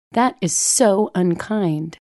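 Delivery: slow, clipped mother's reprimand; sharp scolding. Retold or imitated. Mother sharply rebuking her daughter for unkindness. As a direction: scold each word sharply and slowly. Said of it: "sharp as the very knitting needle".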